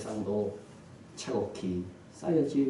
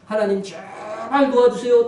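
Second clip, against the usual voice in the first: drawn-out, raised plea, slow; desperate cry for help; 9 semitones higher, 8 dB louder, slower than usual. A narrator's reading. Hanging man calling to God for rescue, desperate cry. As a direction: cry out pleadingly, stretching the words. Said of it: "간절하게 큰 소리로 외쳤습니다".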